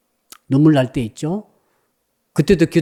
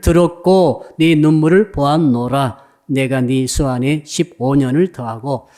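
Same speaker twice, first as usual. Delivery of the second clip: slow, measured reading of the verse; slow solemn Bible reading; scripture reading; 3 semitones lower, slower than usual. Acted. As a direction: read it aloud solemnly, slowly. Congregation reads the verse aloud.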